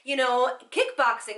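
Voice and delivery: a hammed-up bragging voice; mock smug fitness type. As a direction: parody a smug gym fanatic boasting. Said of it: "one of these that's like".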